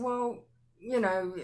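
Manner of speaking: hesitant, drawn-out reply, imitating own embarrassment; awkward. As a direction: stall slowly, fumbling for an answer. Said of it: "I sounded so awkward".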